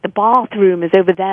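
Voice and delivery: accidental British accent, imitated. Americans copying her by accident, mock British. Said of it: "sort of imitating me".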